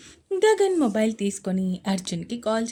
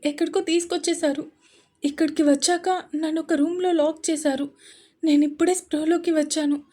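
frightened plea; 4 semitones higher than usual. Acted. Kidnapped girl pleads frightened.

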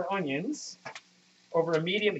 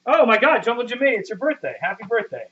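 excited; 5 semitones higher, 4 dB louder than usual. Real, not acted. Viewer's birthday noticed.

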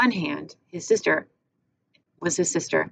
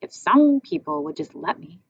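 grumpy; 4 dB louder than usual. Acted. Bruno grumbling at Gretel.

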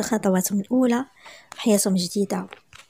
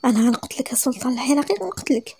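mock angry. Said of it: "معصبه".

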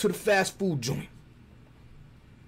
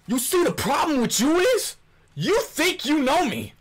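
mock rant; 7 semitones higher than usual. Rant continues, higher.

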